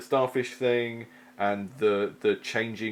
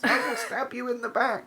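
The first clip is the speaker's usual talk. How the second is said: much higher hammed-up sneaky rogue; over-the-top sly rogue threat. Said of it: "that's my rogue voice".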